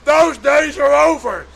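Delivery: slow, high and loud, each word hammered; emphatic retort. Retold or imitated. Tony insists to Big Daddy that the old days are finished, slow and loud. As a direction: put the old ways down firmly.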